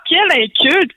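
scornful schoolyard jeer; mocking cry. A narrator's reading. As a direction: sneer it out at the bookish kid. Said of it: "cria le deuxième plus beau".

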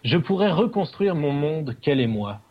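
lightly declaimed poem; hammy stage actor. Acted. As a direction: read it like a mock-solemn poet. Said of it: "je vais le faire à leur place".

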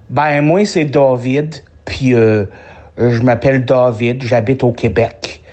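laid-on Québécois accent. Shown as a demonstration. Friend answers the challenge by introducing himself, Québécois accent. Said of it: "te faire mon accent québécois".

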